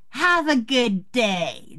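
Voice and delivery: slow snark thrown back at her; sarcastically sweet send-off, slowly stretched; snarky. Retold or imitated. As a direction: mimic the snotty shopper, drawing it out. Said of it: "just like she said to me".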